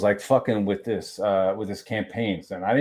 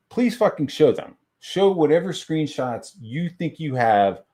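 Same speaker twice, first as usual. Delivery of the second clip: pitched-up, insistent demand; retold exasperated challenge; 5 semitones higher than usual. Answering an accuser's screenshot claim, exasperated and insistent. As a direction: replay daring an accuser to produce proof.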